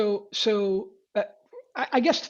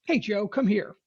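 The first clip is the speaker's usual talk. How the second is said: put-on calling a kid, not angry. Shown as a demonstration. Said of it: "call one of my kids ... if I wasn't angry".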